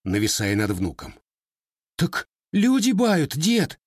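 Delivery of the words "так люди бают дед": high, slow, frightened whimper; frightened sob. A narrator's reading. Grandson whimpers at the looming grandfather, frightened. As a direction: plead with a catch in the throat. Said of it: "испуганно всхлипнул паренёк".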